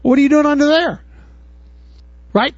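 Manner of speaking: normal talking voice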